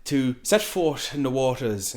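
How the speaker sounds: lightly imitated formal, stilted speech; Bella's broken English. Bella tells him of running away, lightly imitated stilted speech. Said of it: "It's broken English".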